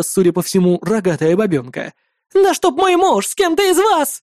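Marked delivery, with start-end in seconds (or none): 2.3-4.2 roared. A narrator's reading. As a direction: scream the insult. Wife screeching again. (жена ревёт: «Брешешь, гадина!»)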